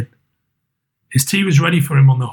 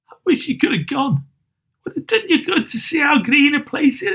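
much higher, soft father holding back tears; high, soft grieving Bob; 11 semitones higher, 3 dB quieter than usual. Acted. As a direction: tell her gently, trying to stay steady. Bob speaks of Tim's grave.

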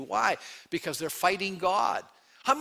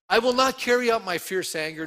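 higher and louder proclamation; booming scripture read; forceful declaration; 6 semitones higher, 6 dB louder than usual. Acted. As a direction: declare it like thunder from above. Reading God's words with force.

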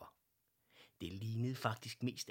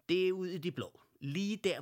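eager outburst; 9 semitones higher, 8 dB louder than usual. Acted. Excited bear urging his friend.

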